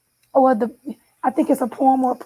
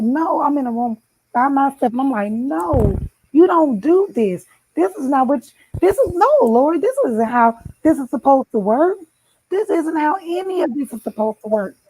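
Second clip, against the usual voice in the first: angry at God; 3 semitones higher than usual. Retold or imitated. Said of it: "I was mad at him".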